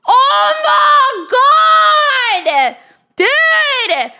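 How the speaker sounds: very high, drawn-out shriek through laughter; laughing scream. Real, not acted. Streamer losing it at the pool chores story, laughing shriek. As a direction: howl it out while cracking up. Chat clowning the pool-cleaning line.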